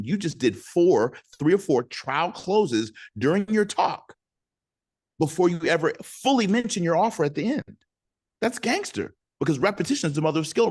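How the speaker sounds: high, loud, building preacher energy; rally the room like a revival; fired-up preaching. Acted. Coach firing up webinar audience, high and loud preaching.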